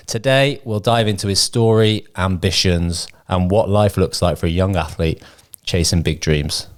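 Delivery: measured, slow podcast introduction read; scripted guest intro. Real, not acted. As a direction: read out the big build-up to the guest. Reads the scripted big guest intro.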